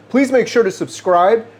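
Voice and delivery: ordinary talk, nothing marked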